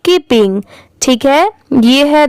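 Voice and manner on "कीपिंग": कीपिंग said as "keep" plus "ing"; teaching pronunciation. Shown as a demonstration. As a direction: join कीप and इंग into कीपिंग. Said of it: "दोनों मिला देंगे".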